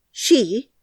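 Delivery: high startled "She?"; surprised question. A narrator's reading. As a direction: catch on the word in surprise. Colin surprised by a word.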